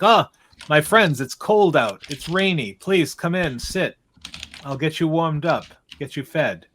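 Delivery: lightly voiced, hospitable innkeeper; a hint of a hearty host; welcoming innkeeper. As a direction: usher weary travelers in, a touch livelier.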